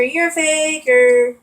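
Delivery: "you're a faker" drawn out slowly, stress on "you're". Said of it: "my dad just kept saying".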